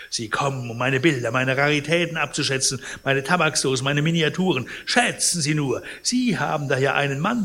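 deep mockery. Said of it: "sagte er mit tiefem Spott".

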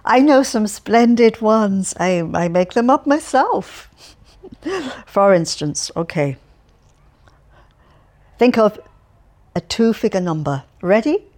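put-on loud, chatty, cheerful old man voice; cheerful Alferov. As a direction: prattle on brightly to a stranger. Alferov proposes a party game.

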